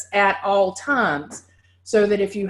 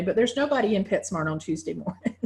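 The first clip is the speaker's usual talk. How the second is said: laughing; 4 dB quieter, faster than usual. Real, not acted. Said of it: "I say that kinda half jokingly".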